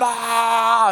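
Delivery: long drawn-out mock yell; playful "aah" of kids running wild; imitated kids' yell.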